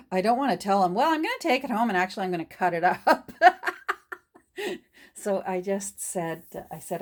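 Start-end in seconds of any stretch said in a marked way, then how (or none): 0.1-3.3 fast, giggling confession to herself; laughing inner thought. Retold or imitated. Dreading telling the gentleman, laughing fast. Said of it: "I froze because I thought". 3.4-4.1 loud high giggle; high burst of laughter. Real, not acted. Amused at her own secret plan, loud high laugh.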